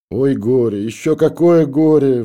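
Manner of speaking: high, loud, slow wail of grief; bursting into sobs over her trouble. A narrator's reading. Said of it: "вдруг заревела". (рыдающим, высоким и громким голосом)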